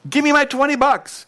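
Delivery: high, loud bully shaking a guy for money; angry shakedown. Acted. Servant shaking a debtor for twenty bucks, loud angry demand. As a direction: demand it while shaking him. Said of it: "He's shaking it out of this guy".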